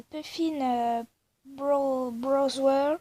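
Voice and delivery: English words in a French accent; bad English accent. Real, not acted. YouTuber naming the app, bad English accent. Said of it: "mon accent anglais est horrible".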